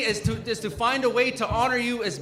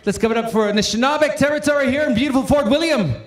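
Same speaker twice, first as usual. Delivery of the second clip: calling for applause; 4 semitones higher than usual. Real, not acted. Host asking the crowd to cheer the territory, shouted hype. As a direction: pump the crowd up.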